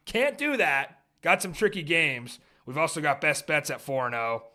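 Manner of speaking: punchy sports-show opener with hard-hit key words; podcast show intro. Acted. Host opens the football show for listeners, sports-show intro.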